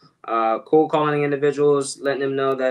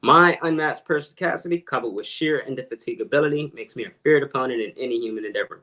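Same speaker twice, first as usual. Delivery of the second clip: a little slower for the back row; slower repeat. Shown as a demonstration. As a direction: say the big words more deliberately. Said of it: "slower for you guys, further in the back".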